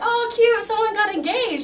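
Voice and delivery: high, light mock-casual voice; 1 breezy reaction. Scrolling Instagram late at night, lightly chirpy. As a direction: play it airy and unbothered. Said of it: "and I was like".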